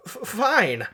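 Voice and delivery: mock-nervous stutter; nervous stammer. A narrator's reading. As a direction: stumble on the first sound nervously. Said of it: "because he's real nervous".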